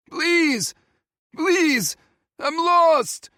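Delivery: high, loud miserable call; fearful calling. Acted. Lost old man calls into the storm, fearful and loud. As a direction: call out full of fear and misery.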